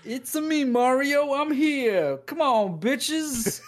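high, loud Italian plumber voice; hammed-up Mario impression, cranked high. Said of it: "I hope that's how he does it".

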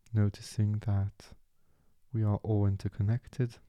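calm, unhurried meditation guide with long pauses; soothing meditation voice, leaving space after each phrase; guided meditation. Acted. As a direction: ease the listener gently into stillness, phrase by phrase.

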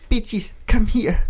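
put-on high, slow Asian-accented call; imitating wife's Asian accent. Husband imitating his wife calling him, high slow accent. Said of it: "speaking of accents".

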